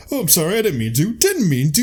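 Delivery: high, prim mock apology; lightly voiced posh knight saying sorry; Lancelot apologizing. Lancelot apologizing to the Lord, in a high mock-polite voice. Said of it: "or he's like".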